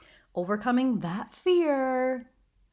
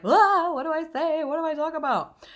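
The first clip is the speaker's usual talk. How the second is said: mock panic; 8 semitones higher, 4 dB louder than usual. Imitates a flustered new streamer.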